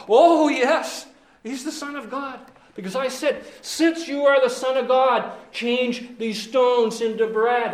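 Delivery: eager, high smooth-talking devil; smug devil. Pretend. Devil answering the brothers, eager and smug. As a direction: play the devil selling himself. Devil recalls tempting Jesus.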